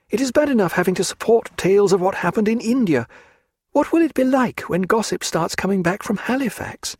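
a high, pleading lady's voice; a lady fearing scandal pleads with Stephen; Diana, anxious. A narrator's reading. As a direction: beg him, a high-pitched proud woman afraid of gossip. Diana pleads against living in England.

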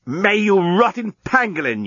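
high-pitched angry curse; yelling. A narrator's reading. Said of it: "yelled the journalist".

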